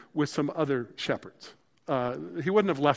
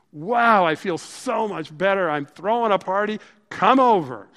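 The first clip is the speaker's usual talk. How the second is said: excited invitation; 3 semitones higher, 6 dB louder than usual. Acted. Happy shepherd invites friends.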